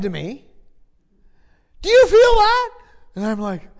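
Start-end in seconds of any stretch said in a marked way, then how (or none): 1.8-2.7 high, loud, urgent question; imitating someone suddenly startled by a feeling; excited retold question. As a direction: blurt it out as the man in the story. Retelling the sick man's question.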